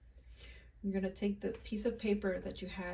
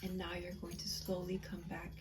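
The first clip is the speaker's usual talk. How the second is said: whisper; 7 dB quieter than usual. Acted. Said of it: "whisper mid-meditation".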